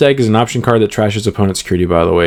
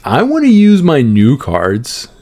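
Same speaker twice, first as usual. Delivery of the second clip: put-on whiny man child; 3 semitones higher, slower than usual. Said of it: "You sounded like a pretty big baby".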